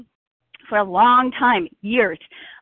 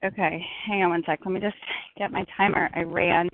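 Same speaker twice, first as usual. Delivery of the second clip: heavy breathing; 3 semitones lower, 4 dB quieter than usual. Real, not acted. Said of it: "Oh, excuse my breathing".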